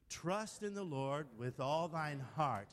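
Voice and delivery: slow, deliberate recitation of a verse; slow measured quoting. Shown as a demonstration. Preacher quotes verses to Jerry his own way, slow and measured. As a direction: recite it slowly, stretching the words. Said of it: "do it just like I did it".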